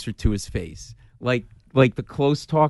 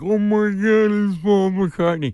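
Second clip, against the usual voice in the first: starstruck gasp; 7 semitones higher, slower than usual. Retold or imitated. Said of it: "I'm like".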